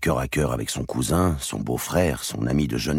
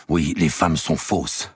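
angry; 3 semitones higher, 3 dB louder, slower than usual. Acted. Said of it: "dit Robert avec colère".

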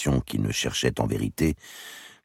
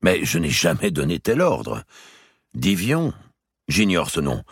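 a bit higher, pleading to be believed; earnest king; 5 semitones higher, 3 dB louder than usual. Acted. The king begging his brother to believe him, earnest. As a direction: insist you knew nothing.

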